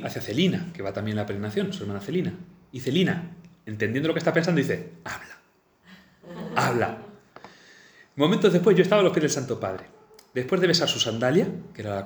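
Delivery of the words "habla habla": whispered, pressing her on; urgent whisper. Retold or imitated. Celina whispering to her sister beside the Pope, urgent whisper. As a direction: hush it out, nudging her sister to speak.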